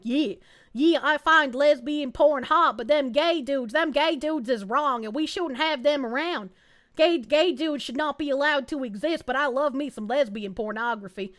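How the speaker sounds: hammed-up Southern redneck accent; bad redneck accent. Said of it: "really bad redneck accent".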